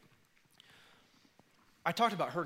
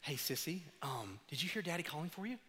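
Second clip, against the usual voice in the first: soft, patient dad voice; softly voiced patient father; gentle fatherly question; 9 dB quieter than usual. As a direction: ask it calmly with care. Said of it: "And I'll say".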